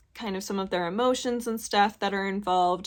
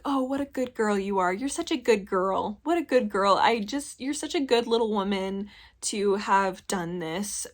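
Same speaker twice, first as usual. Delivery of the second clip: mock patronizing praise, lightly voiced; condescending. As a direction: talk down to her like a pet, half-joking. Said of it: "felt very condescending".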